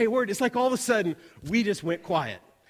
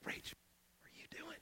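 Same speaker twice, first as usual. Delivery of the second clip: whispered retold question; hushed aside; 10 semitones higher, 24 dB quieter than usual. Friends question Rach after the hosts leave, hushed whisper.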